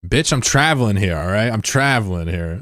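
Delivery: indignant "I'm traveling here" rant; sovereign citizen. Pretend. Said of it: "I'm a sovereign citizen".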